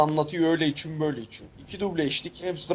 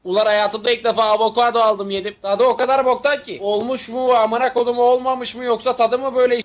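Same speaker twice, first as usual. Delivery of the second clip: loud, raised-pitch complaint; outraged rant; 4 semitones higher, 5 dB louder than usual. Acted. Man who tried avocado the first time, outraged rant. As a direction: complain loudly in baffled disgust.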